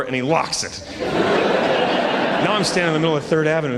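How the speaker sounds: ordinary talk, nothing marked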